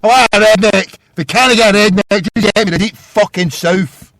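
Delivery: loud, high-pitched angry call; taunting shout. Real, not acted. Host demanding a redneck caller, taunting shout. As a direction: holler for them to come on.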